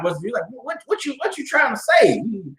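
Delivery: bristling, shouting at the accusation; defensive coworker yelling; offended yell. Retold or imitated. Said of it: "the white dude got offended".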